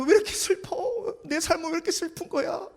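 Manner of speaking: high, teary mock lament; hammed-up tearful complaint; mock weeping. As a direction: whine it like crying over sad music. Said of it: "그러는 거예요".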